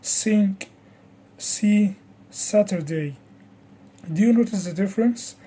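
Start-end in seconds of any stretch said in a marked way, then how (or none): 0.0-3.2 "Think" said as sink, then see, Saturday, all with S; S sound. Shown as a demonstration. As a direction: hiss a clean S to open "Think", "see", "Saturday". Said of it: "compare it with another sound".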